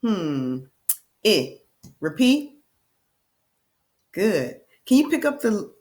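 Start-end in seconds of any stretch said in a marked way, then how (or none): 1.2-1.6 "I" said as short "ih"; isolated short "ih" for "I"; short I sound. Shown as a demonstration. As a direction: say "I" as the vowel in "rip". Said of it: "the sound is".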